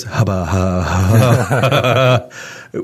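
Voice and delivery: sputtering helpless laugh. Real, not acted. Host laughing at the thought of measuring up to God, sputtering laugh. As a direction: laugh off the very question.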